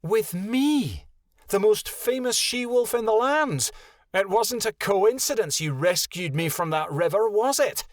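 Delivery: icy scorn toward a liar; cold she-wolf scoffing at Echo; turned cold. A narrator's reading. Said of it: "suddenly turned cold".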